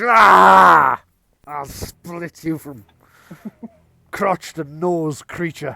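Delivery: very loud undead roar of rage, long ah. A game master voices an undead foe striking back at a player, bellowing in undead rage. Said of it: "He bellows in undead rage".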